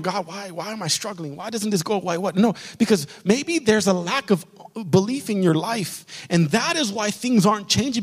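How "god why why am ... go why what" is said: plaintive prayer. Retold or imitated. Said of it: "we're wondering".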